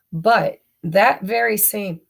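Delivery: hiccups breaking the words; hiccuping. Real, not acted. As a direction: speak through the hiccups. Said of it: "and I'm hiccuping".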